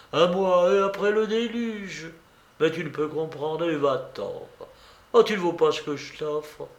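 a hint of a teasing young woman; Blanche. Blanche voiced in the story.

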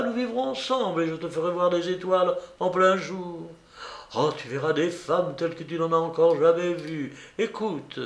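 a hint of a teasing young woman; Blanche.

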